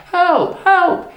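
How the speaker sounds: high, loud cry for help; acted shout. A narrator's reading. Shepherd boy pretending to the villagers, shouting. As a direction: call out in mock alarm. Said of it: "he shouts".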